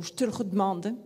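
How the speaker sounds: «je te le redemande» Paris style, schwas dropped, rising end; Parisian accent. Shown as a demonstration. Teacher giving a second Paris variant. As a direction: Parisian question-like rise. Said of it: "à Paris, on va dire".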